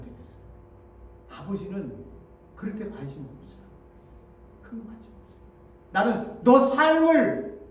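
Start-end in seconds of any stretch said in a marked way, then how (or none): 5.9-7.6 drawn out, loud and high; slow, swelling declaration; slow emphatic. Retold or imitated. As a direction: lean hard on each word. Voicing God's love.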